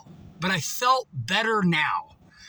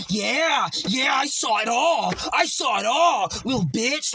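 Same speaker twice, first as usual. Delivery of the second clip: taunting bystander; 3 semitones higher than usual. Retold or imitated. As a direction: jeer at him like a smug witness. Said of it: "other guy over here going".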